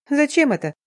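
high-pitched indignant question; scornful huff. A narrator's reading. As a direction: object with a little huff. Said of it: "фыркнула я".

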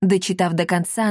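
ordinary delivery, nothing marked

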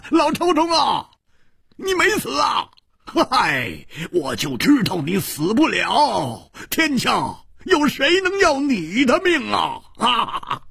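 a touch of laughter through glad teasing; laughing greeting. Acted. Hu Tiehua teasing his old friend, lightly laughing. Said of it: "大笑着说".

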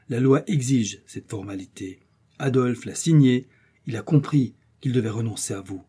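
even, firm, lightly voiced old uncle; measured and severe, never losing control; calm but stern. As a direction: uncle laying down the law to his nephew's wife, calmly stern. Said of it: "d'une voix calme mais sévère".

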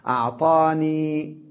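slow أعطاني with a long held ee; variant reading. Shown as a demonstration. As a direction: stretch the final ee of أعطاني. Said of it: "هكذا بعضهم يلفظها". (مد الياء في آخرها)

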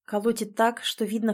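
plain reading voice

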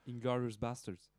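put-on slowed English title in an American accent. Supplies the Tarantino film title to co-host, American accent. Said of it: "bel accent".

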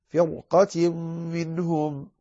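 measured tajweed reading; Quranic recitation. Shown as a demonstration. Teacher finishing the example verse, measured tajweed recitation. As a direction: recite with the nasal drawn out.

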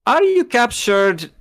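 put-on high surprised question in a German accent. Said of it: "how to do a German accent".

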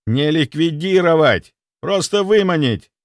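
loud, slowed, insistent; exasperated correction. Acted. Doctor correcting his guard, exasperated. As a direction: hammer the correction home.

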